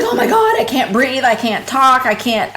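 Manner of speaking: retold panic, pitch jumping high with a nervous laugh; panicked, laughing. Telling the podcast host about a panic attack, high and breathless. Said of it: "I was just crying".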